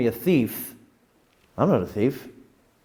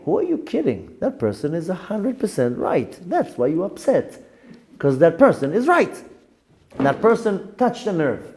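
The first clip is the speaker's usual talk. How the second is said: opens much higher, then lectures himself; self-scolding saying; 4 semitones higher than usual. Retold or imitated. Teacher quoting his own famous saying, higher and scolding. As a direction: scold yourself, catching your own excuse. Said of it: "my own famous saying".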